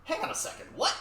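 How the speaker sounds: whispered, baffled hang on; whispered disbelief. Retold or imitated. The kid whispering back at mom's plan in disbelief. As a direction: hush it out in disbelief. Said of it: "And I'm like".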